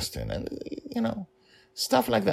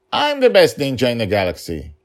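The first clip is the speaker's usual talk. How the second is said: put-on little girl voice; 7 semitones higher, 8 dB louder than usual. Child claims to be ninja.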